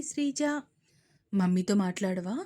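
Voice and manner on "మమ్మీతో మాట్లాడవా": lower, pleading mother. Acted. Mother pleading with sulking daughter, pitiful. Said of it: "దీనంగా అడిగారు".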